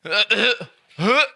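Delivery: slow hammed-up Australian retching; Australian vomiting. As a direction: retch it out like an Aussie. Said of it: "Do you wanna know how that sounds".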